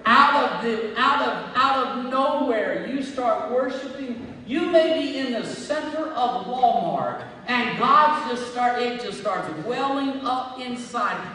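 rising, forceful sermon delivery; impassioned preaching. Real, not acted. Preacher urging the congregation to praise anywhere, impassioned. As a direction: preach it with building fervor.

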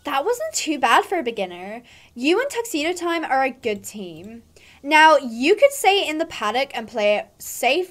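haughty, condescending rider; mean girl. Acted. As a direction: talk down to a beginner. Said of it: "my mean girl voice".

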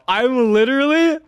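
high, exasperated whine; real wound-up frustration; so mad. Real, not acted. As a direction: drag it out, climbing into an aggrieved wail. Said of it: "I'm so mad right now".

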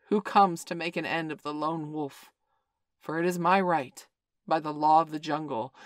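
the aging pack leader challenging the wolves to face him; defiant old wolf leader. Acted. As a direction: stand your ground before the Council, unbowed. Akela addresses the wolf pack.

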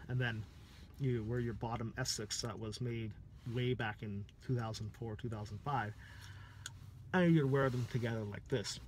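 lisping through clear mouth trays; speaking with dental splints in. Real, not acted. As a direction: teeth covered by retainers. Seen 0: fits upper then lower clear splint; speaks with both in.

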